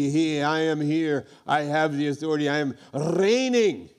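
voice of sin. Acted. Sin rising up to claim authority.

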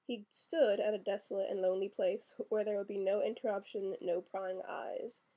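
reading the novel aloud, the last phrase slowed right down; story reading. Acted. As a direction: read like a storyteller, stretching no prying eyes. Reads a novel passage aloud.

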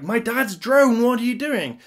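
high, indignant mock alarm; hammed-up dismay; mock alarmed outburst. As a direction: act shocked at the ruined drone. Haley bursts in on Mick.

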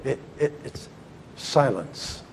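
whispered, unvoiced and soft; hushed secret. Teacher revealing the great secret, whispered. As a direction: breathe the word like a secret.

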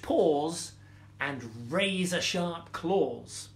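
measured storytelling with pauses; story reading. A narrator's reading. Storyteller reading a fable to children, measured story reading. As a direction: read it gently to young children.

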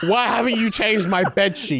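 high nagging mum, lightly voiced; Nigerian mum voice. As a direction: nag about the bed sheets like a mum. Mum quoted again, higher.

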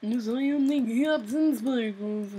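lightly put-on boastful hero voice; mild mock hero voice; Captain Sparkles impression. Shown as a demonstration. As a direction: announce yourself like a proud cartoon hero. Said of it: "That's, that's my voice impression".

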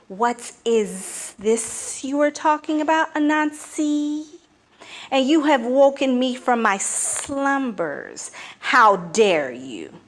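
lightly voiced snake, woken and annoyed; a hint of an irritated snake; sleepy python voice. Python voice in story.

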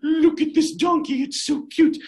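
put-on thrilled kid spotting the cutest donkey; delighted. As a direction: gush over the donkey. Jack spots the donkey.

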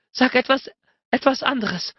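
high, urgent, moaning demand; moaned. A narrator's reading. Woman asking her lover to keep talking, moaning. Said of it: "stöhnte sie".

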